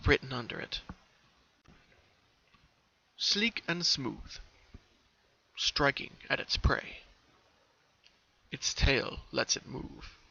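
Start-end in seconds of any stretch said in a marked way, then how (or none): 3.2-10.2 slow, soft, half-whispered riddle; slow hushed reading. Acted. Pinky reading the riddle under the hole, hushed. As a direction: read the riddle like a secret.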